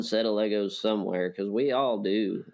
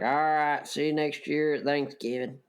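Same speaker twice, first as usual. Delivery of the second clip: put-on country accent; 4 semitones higher than usual. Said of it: "I like that country accent you got right there".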